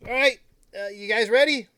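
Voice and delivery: character voice. Acted. GM voices the boat NPC.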